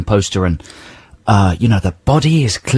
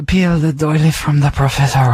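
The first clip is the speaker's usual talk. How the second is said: creepy singer parody; 4 semitones higher than usual. Acted. Mocking the song's creepy singer.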